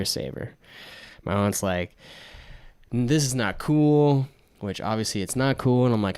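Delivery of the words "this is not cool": drawn-out, slightly higher mock scolding; retold disapproval. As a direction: imitate a disapproving aunt, stretching the words.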